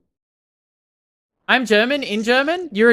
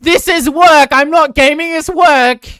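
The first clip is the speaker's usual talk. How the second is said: high, shouted insistence; loud, high-pitched defensive outburst; loud protest; 8 semitones higher, 10 dB louder, slower than usual. Real, not acted. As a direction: shout it indignantly at the doubters.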